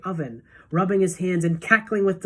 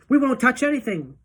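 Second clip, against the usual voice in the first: put-on higher, louder children's promise; eager promise; 7 semitones higher, 5 dB louder than usual. A narrator's reading. Children promise Wonka, eager. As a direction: reassure him keenly. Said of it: "the children cried".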